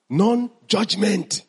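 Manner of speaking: stretched out slowly, "non-judgment" drawn syllable by syllable; slow teacher emphasis; slow and deliberate. Shown as a demonstration. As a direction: lay each part of "non-judgment" down slowly. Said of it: "teacher slowly spells out pillar".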